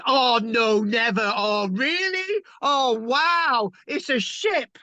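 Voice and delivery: high, drawn-out lightly voiced bystander; mock amazed bystander. Lecturer mimics a second onlooker marvelling, high-pitched. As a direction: answer like a gobsmacked bystander.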